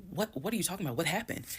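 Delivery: retold flustered demand for answers; frazzled. Wife coming home to question her husband, mildly frazzled. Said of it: "frazzled in a way".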